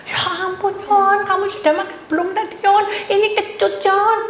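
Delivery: high-pitched retold fussing at a child; mock dismay. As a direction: exclaim in comic alarm to the child. Retold scolding of child over grapes. (pura-pura panik, nada tinggi)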